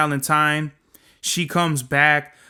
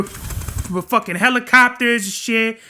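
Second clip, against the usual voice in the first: ordinary talk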